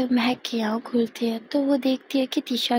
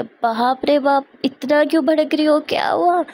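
wide-eyed surprise at her anger; startled; 4 semitones higher, 6 dB louder than usual. Acted. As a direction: react to the outburst in alarm. Startled by the angry call.

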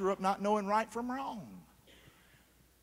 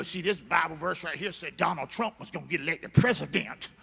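kooky believer; 4 semitones lower than usual. Retold or imitated. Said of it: "try to look at the Bible".

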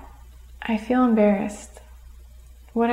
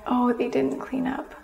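softer, easy, just observing; calm noticing; 2 semitones higher, 6 dB quieter than usual. Shown as a demonstration. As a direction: let it go lightly, no blame. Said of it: "Instead, try".

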